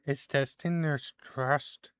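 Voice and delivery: a hint of a mystic, winging the voice; fortune teller. Fortune teller finishes advice to Damien, lightly voiced. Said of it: "cannot remember what voice I was doing for".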